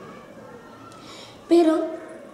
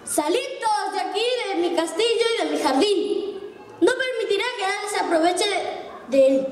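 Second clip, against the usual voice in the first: put-on booming giant orders the children out, higher and fast; thunderous giant voice; 6 semitones higher, faster than usual. Giant shouts at the children to leave, with a thunderous voice. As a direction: roar them out of the garden like an angry giant. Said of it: "les dijo con voz de trueno".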